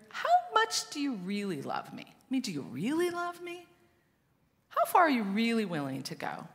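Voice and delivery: acted high, searching questions; doubting plea. Believer asking God how much he loves, high doubting plea. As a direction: press each question upward, pleading for an answer.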